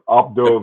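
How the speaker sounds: "Abdo" begun on an open A, silent H; correct French pronunciation. Shown as a demonstration. Repeating the name for the co-host, correct pronunciation. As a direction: say "Abdo" with no H sound. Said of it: "That's how you pronounce it".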